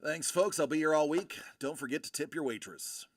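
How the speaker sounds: cheesy comedian sign-off; mock lounge comic patter; stand-up comic. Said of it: "Boo that man".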